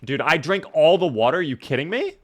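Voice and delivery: loud, rising shock at the empty bottles; real disbelief. Real, not acted. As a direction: blurt it out, caught off guard. Finds all his water gone.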